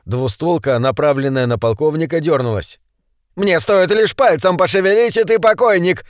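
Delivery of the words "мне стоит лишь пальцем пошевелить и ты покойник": shouting threat. A narrator's reading. Redbeard threatens the colonel at gunpoint, shouting. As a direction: yell it like a bandit about to shoot. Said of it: "закричал Рыжий".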